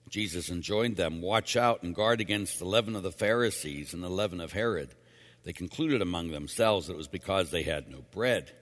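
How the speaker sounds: measured, formal proclamation; Gospel reading. Acted. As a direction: read the Gospel clearly to a congregation. Reads the Gospel aloud.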